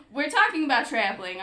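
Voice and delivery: put-on English accent. Host recovering from giggles to introduce traveling, mock-English accent. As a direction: push on in a fake English accent. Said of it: "switch to an English accent".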